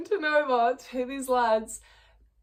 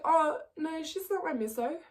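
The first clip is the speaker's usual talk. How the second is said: high reenacted protest; 6 semitones higher than usual. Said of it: "I'm just gonna reenact this for you".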